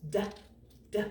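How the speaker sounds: "D" as a short "duh", twice with a pause; letter sound. Shown as a demonstration. Teacher showing the D sound, "D" as short "duh". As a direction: say "D" as its quick sound, separately. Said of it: "Make the D sound".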